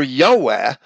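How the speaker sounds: "Yahweh" said YO-weh, with an O; Yahweh as the Latin Yo-weh; Latin pronunciation. Shown as a demonstration. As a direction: round the first vowel of Yahweh into Yo. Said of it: "Jove in Latin is".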